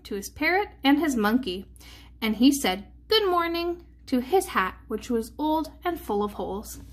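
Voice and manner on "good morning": higher, sing-song good morning; cheery greeting. A narrator's reading. Uncle Nacho to his old hat, cheery greeting. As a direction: greet it in a lifted storybook voice.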